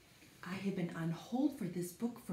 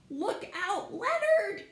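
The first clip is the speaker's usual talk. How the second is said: much higher, louder cry of warning; dramatic warning; 13 semitones higher, 6 dB louder, slower than usual. Acted. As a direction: call out the title like a real alarm. Reading title dramatically.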